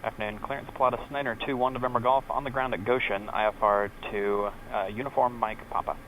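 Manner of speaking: pilot radio readback; clipped radio call over headset. Real, not acted.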